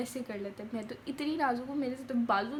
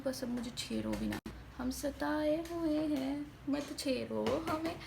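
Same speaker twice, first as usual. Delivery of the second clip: mock weary complaint; 2 semitones higher, slower than usual. Mock complaint to family after laundry.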